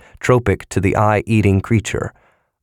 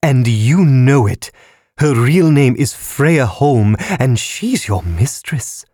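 louder, high, slow accusation; wrathful condemnation; 6 semitones higher, 3 dB louder, slower than usual. A narrator's reading. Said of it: "with wrathful condemnation".

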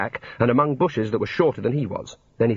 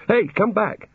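higher-pitched urgent call; 9 semitones higher, slower than usual. A narrator's reading. Digger to the vanishing puddle, calling out. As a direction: call it after something escaping.

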